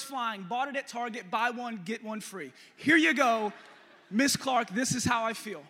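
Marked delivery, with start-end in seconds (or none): 2.7-5.6 defiant mock shout. Kid defies teacher in retold scene.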